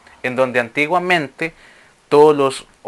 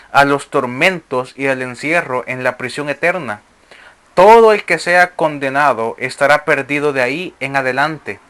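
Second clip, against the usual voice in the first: measured, declamatory reading of sacred text; formal reading to a congregation; scripture reading. Acted. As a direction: read it out as solemn scripture. Reads scripture aloud to listeners.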